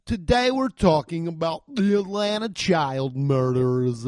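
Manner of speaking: mock Norwegian podcast host accent. Comic mocking the Norwegian podcast host, Norwegian accent. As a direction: imitate a Norwegian host announcing the episode. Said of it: "talk about a fucking accent".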